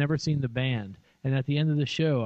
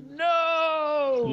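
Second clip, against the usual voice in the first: Vader; 13 semitones higher than usual. Retold or imitated. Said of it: "he goes".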